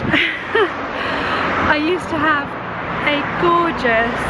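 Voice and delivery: restarting through a laugh. Real, not acted. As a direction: laugh it out slowly.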